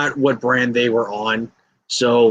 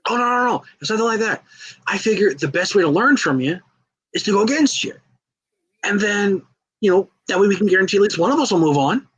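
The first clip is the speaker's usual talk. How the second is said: high, quick, upbeat talking-him-round voice; eager Slater; 6 semitones higher than usual. Retold or imitated. Slater convincing Shorty G it helps them both, high and fast. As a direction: sell the plan fast and brightly.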